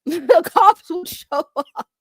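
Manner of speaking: high, slow, drawn-out delivery; slow exaggerated cop-calling voice. Shown as a demonstration. Showing chat how a silly call would sound, drawn out. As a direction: stretch it out like a ridiculous caller. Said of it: "call the cops like this".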